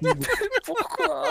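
high, loud exasperated pourquoi; quick outraged yelp; raging gamer. Real, not acted. His plan blew up. (joueur énervé qui crie pourquoi)

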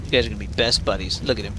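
ordinary talk

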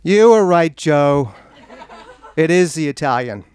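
hammed-up yell, strongest on the opening words; mock scream. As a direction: imitate calling out to a husband across a restaurant. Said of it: "screams across the freaking restaurant again".

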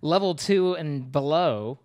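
slow, grand mock lament. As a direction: intone it like an epic.

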